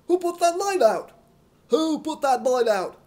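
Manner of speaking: loud, high furious yell; angry shouting. Acted. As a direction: demand it, fuming. Shouting match in the dark.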